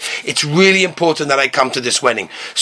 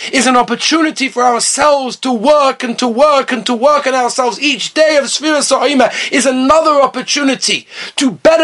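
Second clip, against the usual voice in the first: raised, insistent sermon delivery; fervent preaching; 6 semitones higher than usual. Real, not acted. Preacher urging self-improvement during the Omer, fervent. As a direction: drive each phrase home to the congregation.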